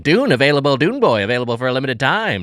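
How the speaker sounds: newsreel guy. Acted. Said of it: "You sound like a newsreel guy".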